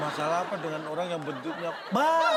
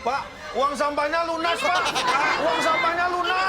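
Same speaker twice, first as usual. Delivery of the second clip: high, loud doll voice; talking doll; 11 semitones higher, 7 dB louder than usual. Acted. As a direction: chirp it like a toy doll. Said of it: "Ini suara bonekanya".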